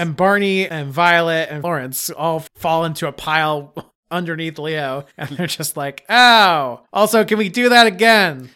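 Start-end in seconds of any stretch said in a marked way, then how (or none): 6.1-8.5 loud, high eager plea; excited kids. Acted. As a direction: beg to go again, thrilled. Kids thrilled after the crash.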